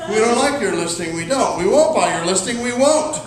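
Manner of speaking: a hint of a lordly god, stubborn; mock-thundering refusal, lightly voiced; Zeus customer. Difficult customers refusing the listing, a hint of mock Zeus. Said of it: "They go all Zeus on you".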